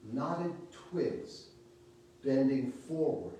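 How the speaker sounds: measured reading with long pauses between short lines; poetry reading. Real, not acted. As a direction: read the poem out phrase by phrase, letting each line hang. Reads a poem aloud.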